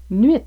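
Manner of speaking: "nuit" with its final t sounded, "nuitt". Shown as a demonstration. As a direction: end "nuit" on a clear audible t. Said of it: "nous prononcions la finale en T". (« nuit » prononcé avec le t final, « nuitt »)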